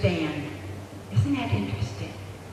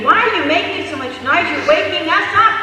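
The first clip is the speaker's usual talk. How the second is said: high, loud acted complaint; screaming neighbors; 8 semitones higher, 6 dB louder than usual. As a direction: holler it through the wall, outraged.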